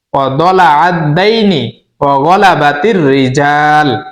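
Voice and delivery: slow Arabic recitation, long held vowels; teaching dua recitation. Shown as a demonstration. Teacher repeating the dua for learners, slow measured recitation. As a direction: recite it slowly in measured phrases with short pauses. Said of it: "আবারও বলছি".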